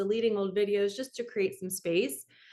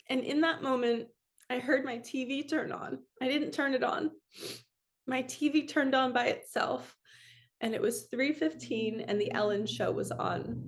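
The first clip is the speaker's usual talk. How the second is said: emotional; 3 semitones higher than usual. Real, not acted. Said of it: "I'm totally gonna get emotional".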